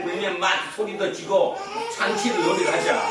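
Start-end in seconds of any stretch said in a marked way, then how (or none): 2.0-3.0 high-pitched playful call; playing child. Child calling friends to play wedding, high playful voice. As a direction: pitch it way up like a child proposing a game.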